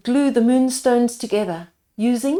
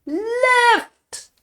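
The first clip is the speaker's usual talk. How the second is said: higher strained cry; puffing; 13 semitones higher, 4 dB louder than usual. A narrator's reading. Second man in the tree puffing, straining. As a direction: grunt it out with effort. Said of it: "puffed another".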